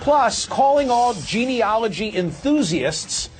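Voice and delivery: brisk anchor read of the upcoming stories; news tease read. Acted. Host teasing the next segments to viewers, anchor read. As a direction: sell the coming segments like a promo.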